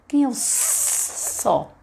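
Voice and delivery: put-on slow, hushed question to a child; soft teacher prompt. Shown as a demonstration. Teacher quietly asking a child which letter, slow. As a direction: coax the child gently to find the sound.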